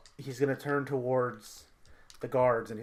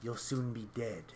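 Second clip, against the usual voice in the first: menacing villain; 2 semitones lower than usual. Acted. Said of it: "he just looks at you and he goes".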